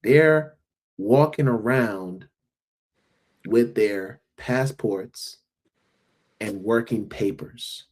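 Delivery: sober, measured phrases with long pauses; earnest, deliberate delivery; serious. Real, not acted. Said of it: "go on a serious note".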